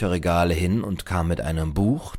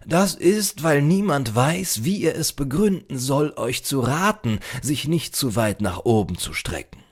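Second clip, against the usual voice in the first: lightly voiced librarian, raised pitch easing down; explaining librarian; 7 semitones higher, 3 dB louder than usual. A narrator's reading. Librarian explains strangers' reception, lightly voiced and emphatic. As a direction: explain it patiently as a learned librarian.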